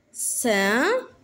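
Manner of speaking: "Ceinture" split into cein, ture; syllable by syllable. Shown as a demonstration. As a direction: pause between drawn-out syllables of "Ceinture". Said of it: "dans la première". (« Ceinture » en syllabes bien séparées)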